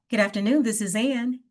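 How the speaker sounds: smiling and energetic. Shown as a demonstration. Job seeker answering a recruiter's call, bright and upbeat. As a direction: sound the smile into the greeting. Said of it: "speaking with a smile on my face and I sound more energetic".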